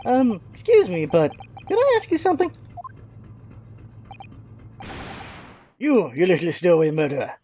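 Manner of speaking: a mismatched voice for the polite question, then a sudden rough insult; the voice that doesn't fit the character; wrong character voice. Acted. Player trying a line in the wrong voice, mismatched character voice. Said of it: "Eh, wrong voice".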